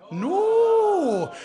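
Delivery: high, loud comic shout; big shouted no. Acted. Storyteller shouts the answer with the audience, loudly. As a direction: belt it out for the crowd.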